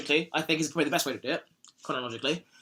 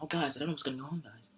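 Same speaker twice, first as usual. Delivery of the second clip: Ed Norton voice; 11 dB quieter than usual. Retold or imitated. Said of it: "Ed Norton voice being like".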